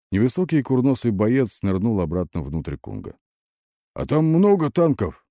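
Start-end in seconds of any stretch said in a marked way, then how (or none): 3.9-5.2 high-pitched anxious asking; horrified question. A narrator's reading. Soldier asks about enemy tanks, horrified. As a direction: ask it wide-eyed with dread. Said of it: "тараща расширенные от ужаса глаза".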